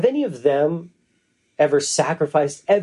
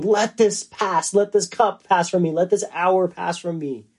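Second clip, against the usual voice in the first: slightly raised, imploring plea; retold pleading; 3 semitones higher than usual. Preacher voicing Jesus praying to be spared, retold pleading. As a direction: plead as if crying out, mildly. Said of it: "he was crying out to his Father".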